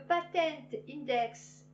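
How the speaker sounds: light American accent on "Patent Index"; a hint of American English. Shown as a demonstration. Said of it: "je l'ai dit avec l'accent américain".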